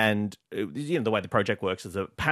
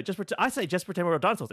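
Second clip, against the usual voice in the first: retold repeat; 4 semitones higher than usual. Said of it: "So I say".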